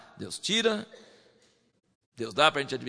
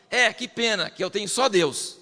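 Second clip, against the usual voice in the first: mock disappointment; 4 semitones higher than usual. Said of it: "ele não fala assim".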